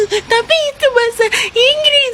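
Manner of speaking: tearful whimpering insistence; crying. Acted. Kid insisting it's English, crying. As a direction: sob the words out like a hurt kid. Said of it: "Dasar cengeng".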